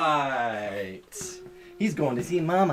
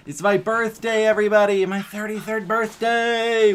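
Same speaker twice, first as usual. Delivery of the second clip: louder, higher birthday cheer; real birthday excitement, raised pitch; excited announcement; 4 semitones higher, 4 dB louder, faster than usual. Real, not acted. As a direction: announce it to everybody, thrilled. Announces own birthday to livestream viewers.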